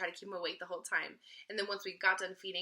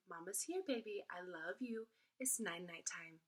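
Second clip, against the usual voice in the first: put-on soft mama-to-baby reassurance; tender, unhurried bedtime murmur; calm, soothing; 6 dB quieter than usual. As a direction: settle a baby gently and softly. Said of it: "just use the calm, soothing tone".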